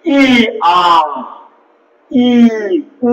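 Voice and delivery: ই আ ই উ each said alone, the mouth narrowing and widening; teacher contrasting vowels; vowel contrast demo. Shown as a demonstration. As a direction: sound out ই, আ, ই, উ. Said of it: "ই বা উ উচ্চারণ করি".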